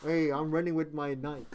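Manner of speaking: "Nike" said as one syllable, NIKE, in a mock-casual voice; a hint of a clueless sneaker fan; mocking wrong speaker. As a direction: mimic someone saying "Nike" like "bike". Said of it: "Who says Nike?".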